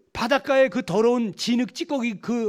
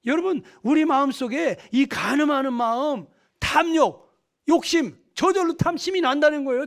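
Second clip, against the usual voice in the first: higher, emphatic listing of sins; forceful preaching; 5 semitones higher, 4 dB louder than usual. Real, not acted. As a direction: call out each sin to the congregation. (죄목을 하나하나 힘주어 설교하듯)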